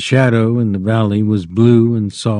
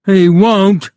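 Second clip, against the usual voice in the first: much higher, louder desperate cry; frantic; 9 semitones higher, 5 dB louder than usual. Acted. Lenny frantically denies it, high and loud. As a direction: cry it out in panic. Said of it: "Lenny cried frantically".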